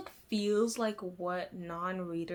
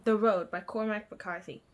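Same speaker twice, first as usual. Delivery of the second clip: lightly put-on British accent; 4 dB louder than usual. Vlogger naming her current book, in a British accent. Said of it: "in a British accent".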